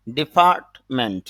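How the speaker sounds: ডিপার্টমেন্ট with no r, "di-paat-ment"; silent r. Shown as a demonstration. Teacher showing the British IPA form, r dropped. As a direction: say ডিপার্টমেন্ট slowly, long a and no r. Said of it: "এখানে দেখেন আর নাই".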